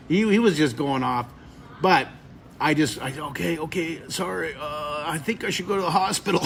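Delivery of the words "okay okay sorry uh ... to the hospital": hint of a battered, sorry victim; half-joking pained voice; mock-injured. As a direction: play it lightly wounded and apologetic. Acting himself hurt, then joking.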